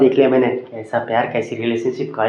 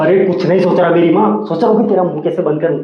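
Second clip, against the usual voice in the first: exasperated retort; 2 semitones higher than usual. Acted. Pestered man snaps back.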